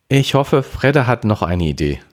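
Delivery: mild sighing hope. A narrator's reading. Sister hopes someone has an idea, mildly sighing. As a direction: start high, then let it drop. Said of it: "seufzte sie".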